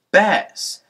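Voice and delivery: sharp, high reproach; shocked exclamation. Acted. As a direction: call her name in shock. Pip scolds his sister.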